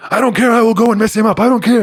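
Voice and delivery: lightly imitated thick Tunisian accent, fired up; Salah's defiant accent. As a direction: play the Tunisian center saying he'll fight anyway. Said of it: "he's got a thick accent".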